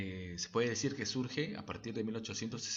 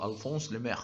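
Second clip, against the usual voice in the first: amateur French pronunciation of "Alphonse Lemer"; bad French accent. Shown as a demonstration. Apologetic host names the French editor, bad French accent. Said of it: "pedir perdón por este mal acento francés".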